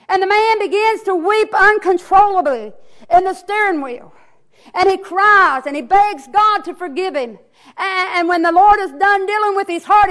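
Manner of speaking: emphatic revival storytelling; impassioned preaching. Real, not acted. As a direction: preach the story with rising fervour. Preaches the testimony with force.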